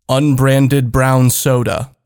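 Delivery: slow, deliberate drink order; slow drawn-out order. Acted. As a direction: stretch out unbranded brown soda. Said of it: "can you make that more neutral".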